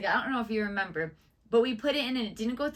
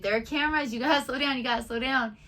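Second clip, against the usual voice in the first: retold anxious nagging, pitched up at first; nervous warning; 4 semitones higher than usual. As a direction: imitate a worried passenger urging the driver. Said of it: "I was so nervous".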